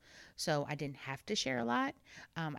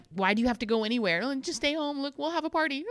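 loud, rising, hammed-up plea; mock pleading parent; 8 semitones higher, 6 dB louder, faster than usual. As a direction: coax the kids into staying, laughing at yourself. Acts possessive parent pleading with kids.

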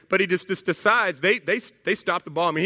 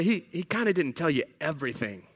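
low, soft, hesitant hint; reluctant, hushed tale-telling; confiding insinuation; 4 semitones lower, 6 dB quieter than usual. Acted. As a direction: let it slip quietly, as an acted confidence. Judaizers confiding to new convert.

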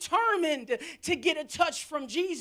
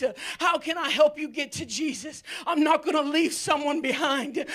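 louder and fast, eager to bring people along; fast, fired-up resolve; 4 dB louder, faster than usual. Shown as a demonstration. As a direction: rush it with joyful zeal. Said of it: "you better say".

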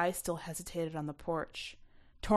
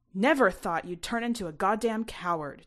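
raised, accusing voice; mild angry yell; 2 semitones higher, 7 dB louder than usual. A narrator's reading. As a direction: throw the insult at her. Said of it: "Tyson was yelling".

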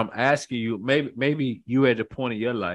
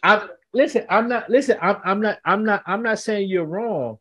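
higher, urgent defensive pleading; excited protest; 9 semitones higher than usual. Real, not acted. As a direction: jump in fast to defend yourself.

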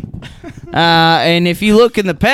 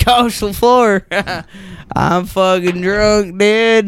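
laughing admission; slower than usual. Retold or imitated. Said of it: "I said".

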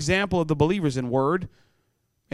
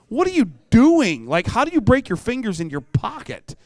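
exasperated disbelief; 6 semitones higher than usual. Retold or imitated. Youth pastor mocking teen's broken fingers, exasperated. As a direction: throw up your hands at the kid.

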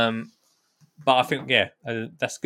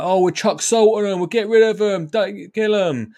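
lightly voiced child, higher; imitating a kid, higher and louder; kids' voice; 10 semitones higher, 5 dB louder than usual. Voicing kids' answer.

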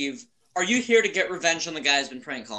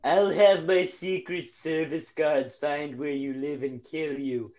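Trump impression; slower than usual. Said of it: "my impression of him".

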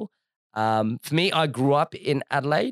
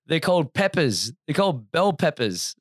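imitated Canadian accent, a little raised; 3 semitones higher than usual. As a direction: put on a rough Canadian accent. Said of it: "brutalizing the, uh, Canadian accent".

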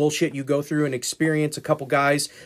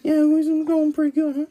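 mock radio voice. Mimicking the radio voice.

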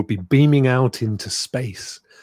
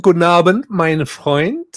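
German greeting; 3 semitones higher than usual. Shown as a demonstration. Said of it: "Can you say guten Abend".

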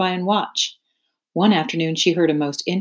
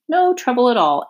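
sly rat; 6 semitones higher, 3 dB louder than usual. Acted. Templeton the rat.

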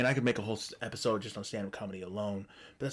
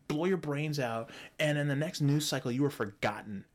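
ranting; 4 semitones higher than usual. Retold or imitated. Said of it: "I'm like".

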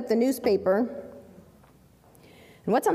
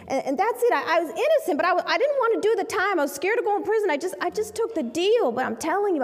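raised, pleading voice of a frightened client; desperate pleading; 5 semitones higher than usual. Retold or imitated. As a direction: beg to be believed, voice lifted high. Client pleads his innocence.

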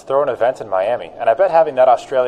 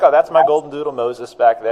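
answering with a laugh in the voice; laughing reply; 4 semitones higher, 3 dB louder than usual. Retold or imitated. Telling callers about the dog, laughing. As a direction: chuckle through the line. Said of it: "and I'm like".

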